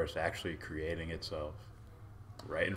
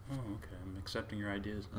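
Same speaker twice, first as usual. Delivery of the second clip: meek acceptance; 4 semitones higher, 7 dB quieter than usual. Retold or imitated. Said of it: "you're just like".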